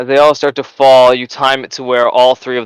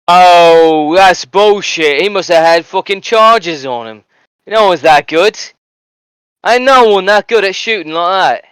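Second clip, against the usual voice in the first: raised-pitch jeering bystander grumbling; angry spectators; 5 semitones higher than usual. Acted. Bystander accusing the Ratling shooter of cheating, raised, jeering. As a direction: sore loser crying foul at the sniper. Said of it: "you hear a few of them go".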